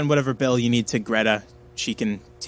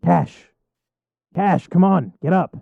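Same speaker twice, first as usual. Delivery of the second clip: raised, higher voice calling someone awake; urgent rousing call; 4 semitones higher than usual. Acted. Jack shakes the unconscious Cash awake, urgent rousing call. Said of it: "you hear a voice that says".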